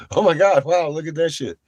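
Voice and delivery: loud, high, wide-eyed exclaim; hammed-up awe at the lights; a big, loud, high gush of wonder; mock amazement. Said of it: "You might be like".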